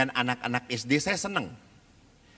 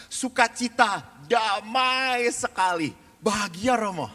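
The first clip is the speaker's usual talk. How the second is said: higher, slow, drawn-out mock rapture; mildly gushing joy; 6 semitones higher, slower than usual. Mothers thank the priest after the retreat, mock gushing. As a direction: lightly imitate blissful retreat-goers.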